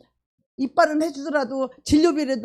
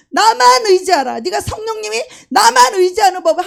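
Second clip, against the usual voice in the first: voice of God; 7 semitones higher, 10 dB louder than usual. Acted. Preacher voicing God to the congregation, booming and high. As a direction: proclaim it from above.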